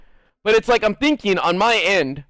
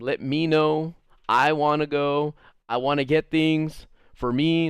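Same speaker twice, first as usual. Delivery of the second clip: "me" and "I" picked out in a mocking quote; pointed weight on every "me" and "I"; stress on me and I; 3 dB quieter, slower than usual. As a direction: lean on each "me" and "I". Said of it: "me's and I's".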